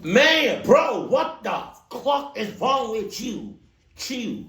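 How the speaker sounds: high, loud outraged disbelief; stretched-out bro, what is wrong with you. Real, not acted. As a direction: yell it like you can't believe it. Reacting to the story in disbelief.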